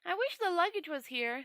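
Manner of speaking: high, eager, wondering tourist voice; a naive visitor gushing over a solemn ritual; Two Flower. Acted. The tourist telling Rincewind about the ceremony, high and eager.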